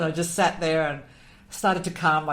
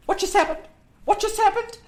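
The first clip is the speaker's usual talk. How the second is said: much higher, pressing urgent question; astonished what happened; 14 semitones higher, 4 dB louder than usual. Retold or imitated. The communicator finds her in tears, amazed questioning. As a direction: burst in asking, amazed.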